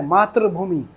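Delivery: मातृभूमि with "tra" in place of "tri"; everyday slip, मातृभूमि as "maatra-bhoomi"; common mispronunciation. Shown as a demonstration. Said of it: "आप लोग क्या करते हैं".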